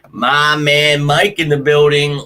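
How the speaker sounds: slow, drawn-out hype call to a fan; big welcome for a viewer; stretching each word like an announcer; hyped shout-out. Real, not acted.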